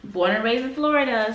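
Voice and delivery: high, bubbly relief at being back; excited homecoming. Retold or imitated. To herself on arriving in Florida, excited high voice. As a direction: squeal it like you're finally home. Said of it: "So I was like".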